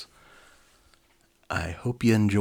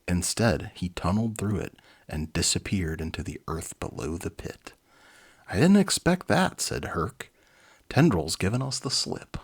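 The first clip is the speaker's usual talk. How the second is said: lively read-aloud storybook voice; animated storyteller; story narration. A narrator's reading. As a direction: read it like a children's book. Reads children's book aloud.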